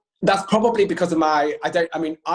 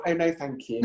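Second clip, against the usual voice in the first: put-on prissy child; 6 dB quieter than usual. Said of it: "They're like seven years old".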